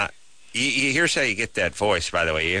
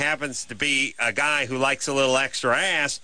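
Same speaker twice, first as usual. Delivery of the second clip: condescending explaining; 4 semitones higher than usual. Acted. Mock lecture to a girlfriend.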